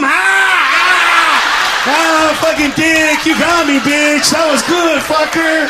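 mock laughing buddy. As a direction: cackle at the burn. Buddy reacting to mom joke.

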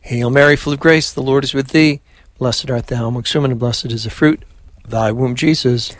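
steady devout Hail Mary; prayer recitation. Acted. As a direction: lead the prayer evenly. Leads the rosary.

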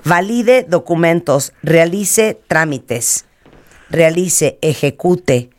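slow, deliberate "Valide", "Realice", "ejecute" stressed before the last syllable; read without accent marks. Shown as a demonstration. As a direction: stretch "Realice" as re-a-LI-ce. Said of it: "O sea, no hay ningún acento".

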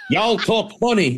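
put-on Southern accent. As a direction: imitate a Southerner passing a remark. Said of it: "you get the Southerners".

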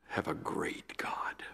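softly, slowly, almost whispered; hushed reverence. Retold or imitated. Old professor reassuring the young preacher, hushed. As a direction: drop to a slow, reverent hush. Retold final verdict, spoken softly.

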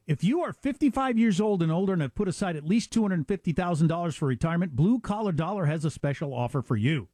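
upbeat, punchy ad read. Acted. Hosts reading a sponsor ad to listeners, upbeat ad read. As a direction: sell the offer to listeners.

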